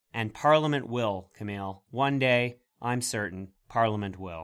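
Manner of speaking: deadpan sarcastic assurance; mock-confident promise, in measured phrases. Host assuring co-host that Parliament will act one day, sarcastic. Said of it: "I appreciate your sarcasm there".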